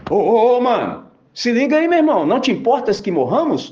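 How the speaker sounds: loud, high, indignant rebuke; mock scolding. Disciples scolding the sleeping Jesus, loud and high. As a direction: chew Jesus out like scared fishermen. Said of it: "deram uma dura em Jesus".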